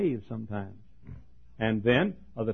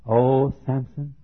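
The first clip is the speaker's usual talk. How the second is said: flirty southern Delilah; 2 semitones higher than usual. Retold or imitated. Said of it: "she had a southern accent".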